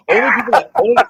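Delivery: words collapsing into laughter; laughing while talking. Real, not acted. Host trying to continue a grim story, cracking up. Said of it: "why are you laughing at that".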